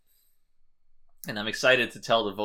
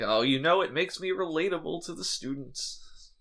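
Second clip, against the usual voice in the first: lightly voiced old man, pitched up; vague old man voice; 5 semitones higher than usual. Data excusing his gray streak, vague old man voice. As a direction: play Data as vaguely elderly. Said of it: "did a vaguely old man voice".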